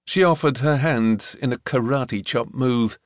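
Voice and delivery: ordinary delivery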